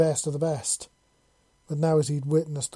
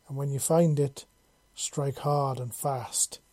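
breathless; slower than usual. Acted. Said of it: "she said in a breathless voice".

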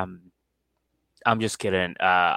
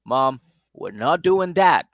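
firm mock warning; 6 dB louder, slower than usual. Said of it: "And then Mike goes".

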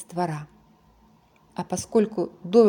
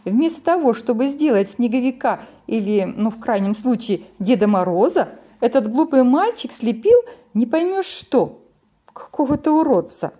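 scornful snowman; 3 semitones higher, 4 dB louder than usual. Acted. Snowman mocks the piglet.

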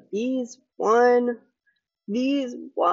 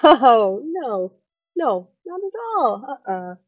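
higher, louder sarcastic no's; mock host denial; 5 semitones higher, 8 dB louder than usual. Host mockingly reassures the guest, higher and louder. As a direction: deny it with fake innocence.

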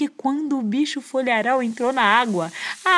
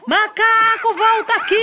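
furious shout, much higher and louder; 11 semitones higher, 4 dB louder than usual. Acted. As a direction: yell after the fleeing monkey. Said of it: "e gritou". (grito furioso da onça, bem mais alto e agudo)

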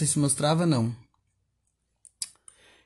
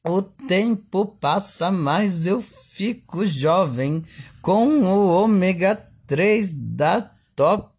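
over eager infomercial; 3 semitones higher, 3 dB louder, slower than usual. Pretend. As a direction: sell it like a daytime TV host. Continues the TV sales pitch.

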